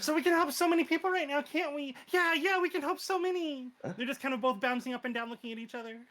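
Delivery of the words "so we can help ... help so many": excited. Acted. Eager characters bouncing up and down.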